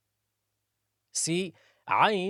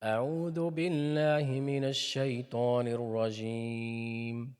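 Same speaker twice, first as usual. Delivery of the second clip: Quran recitation; faster than usual. Acted.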